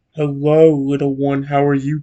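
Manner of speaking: warm, low, unhurried voice. The speaker imagines how a woman's voice would sound: slow warm deep voice. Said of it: "Her voice is slow, warm, and deep, like a cello played softly".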